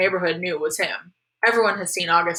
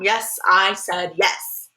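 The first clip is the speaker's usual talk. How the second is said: very slow, spaced-out words; exasperated agreement; much slower than usual. Acted. Boy confirms to mom he will help, exasperated. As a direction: spell it out slowly for emphasis.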